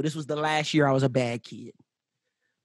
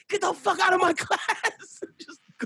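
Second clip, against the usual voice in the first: teacher ordering out; 13 semitones higher than usual. Retold or imitated.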